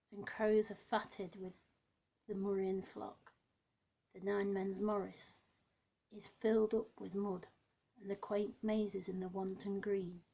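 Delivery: measured, projected verse recital; poetry reading. Acted. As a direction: read the verse aloud line by line, pausing between phrases. Reads a poem aloud.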